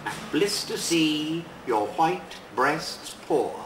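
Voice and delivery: measured, deliberate poem reading with long pauses; unhurried poet's reading voice; poetry reading. Acted. Poet reads his poem aloud.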